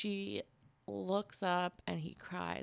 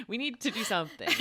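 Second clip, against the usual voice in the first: higher, laughing plea; laughing mock panic; 5 semitones higher, faster than usual. Cohost begging friend for a hobby, laughing panic. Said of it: "I'm panicking".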